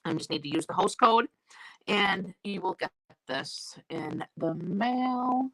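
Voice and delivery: slightly crackly, slow voice. Real, not acted. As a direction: talk through a crackly throat. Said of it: "My voice is crackly".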